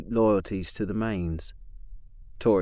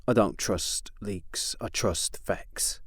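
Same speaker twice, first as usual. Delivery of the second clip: cool rebuff; 8 dB quieter, slower than usual. Acted. Tori curtly rebuffing Chris.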